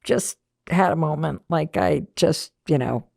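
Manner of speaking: understated, low-pitched imitation of an apology; mild retold apology. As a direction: play her explaining herself apologetically. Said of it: "And she was like".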